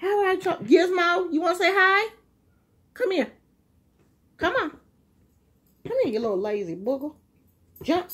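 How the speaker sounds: high, sing-song pet voice, coaxing; talking to the dog. Real, not acted. Woman coaxing her dog Gizmo to come over, high pet talk.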